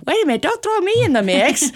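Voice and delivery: a hammed-up cry of wait a minute; mock protest. Husband protesting being dragged in, high and loud.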